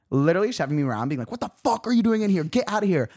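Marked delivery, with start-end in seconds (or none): 1.3-3.1 higher, hurried mock telling-off; bodyguard's voice. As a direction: imitate a bodyguard hustling someone out. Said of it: "It is the bodyguard of the club".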